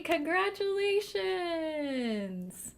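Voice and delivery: slow, high drawn-out congratulations; delighted. Real, not acted. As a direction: stretch it out with delight. Delighted reaction to wedding.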